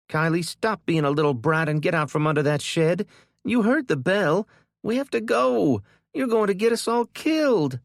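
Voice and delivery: high, loud angry yell; furious scolding. A narrator's reading. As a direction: sister at the end of her patience. Kendra yelling at sister.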